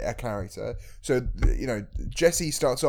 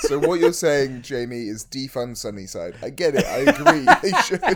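laughing; 6 dB louder than usual. Real, not acted. Laughing joke reply.

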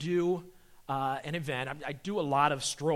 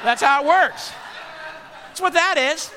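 mild punchline emphasis; 12 semitones higher, 9 dB louder than usual. Acted. Comic punchline.

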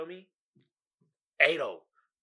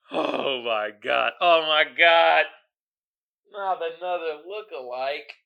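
stunned; 2 semitones lower, slower than usual. Real, not acted. Stunned by the look-alike.

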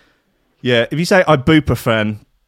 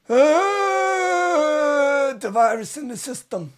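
higher eerie mock-sinister voice; mock spooky voice; 13 semitones higher, 3 dB quieter, much slower than usual. DJ joking about the stream glitch, mock eerie voice. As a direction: play the creepy system voice.

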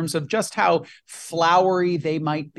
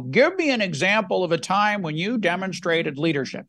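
mock interviewer accent; 3 semitones higher than usual. Host imitating an interviewer asking a behavioral question, in a mock accent. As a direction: pose it in a put-on interviewer's accent. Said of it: "usually said in an accent like that".

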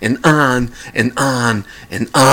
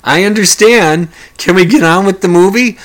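exasperated thought; 6 semitones higher, 6 dB louder than usual. Retold or imitated. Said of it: "I was thinking".

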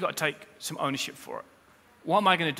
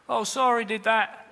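careless sorry; 5 semitones higher than usual. Retold or imitated. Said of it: "who's sorry?".

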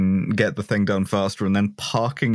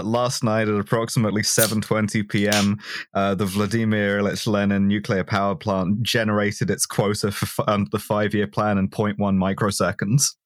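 grave voice; 3 semitones lower than usual. Retold or imitated. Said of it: "in a sort of in a grave voice".

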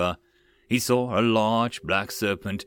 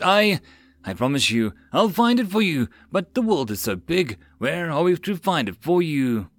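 terrified pleading; 5 semitones higher than usual. Acted. Begging the serpent in terror.

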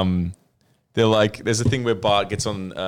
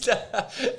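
sudden high laugh at a friend's line; high burst of laughter; 13 semitones higher than usual. Real, not acted. Cracking up at an accidental Simpsons reference, high laugh.

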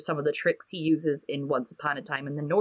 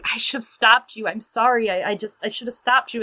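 mildly pleading, higher-pitched quote; retold anguished cry; 4 semitones higher than usual. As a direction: imitate a regretful apology with light distress. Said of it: "Hester cries out".

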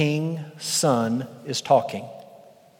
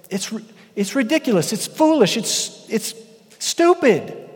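scoffing God; 8 semitones higher than usual. Pretend. Preacher voicing God scoffing at rebels. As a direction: toss it off as ridiculous. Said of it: "And he says".

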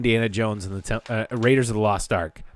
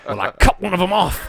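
laughing; 5 semitones higher, 5 dB louder than usual. Retold or imitated. Movie quote with laughter.

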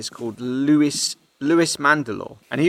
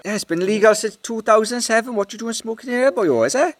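higher mock Welsh; 8 semitones higher than usual. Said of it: "that Welsh guy going".

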